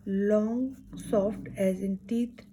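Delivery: "long soft as in teeth" drawn out slowly, the th in "teeth" held soft with the tongue to the teeth; spoken slowly as a pronunciation model. Shown as a demonstration. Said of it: "जो आवाज़ है थ".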